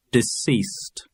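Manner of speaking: neutral dictionary recording read; uninflected headword into a microphone; absolutely straight. A narrator's reading. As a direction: say the word with no vocal colouring. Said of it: "have to be spoken absolutely straight".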